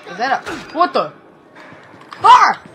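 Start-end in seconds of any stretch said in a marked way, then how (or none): 2.2-2.6 high, loud scream; startled scream. Real, not acted. Gamer jumped at, startled scream. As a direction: shriek of surprise. Jump scare.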